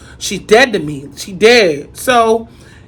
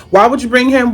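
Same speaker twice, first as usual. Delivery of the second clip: exasperated outburst; 3 semitones higher, 4 dB louder than usual. Retold or imitated. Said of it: "In my head".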